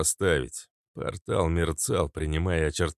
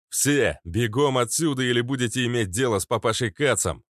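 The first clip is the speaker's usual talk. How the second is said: urgent shout; 5 semitones higher, 3 dB louder than usual. Acted. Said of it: "вырвалось у меня".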